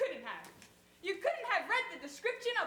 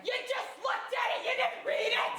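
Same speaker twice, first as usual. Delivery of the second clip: louder accusing insistence; indignant shout; 2 semitones higher, 5 dB louder than usual. Acted. Woman shouting at the clerk who only glanced, indignant. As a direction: punch didn't.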